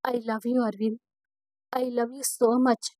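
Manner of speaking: loving murmur face to face; tender. Acted. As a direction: say it gently up close, looking at him. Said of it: "ప్రేమగా చూస్తూ".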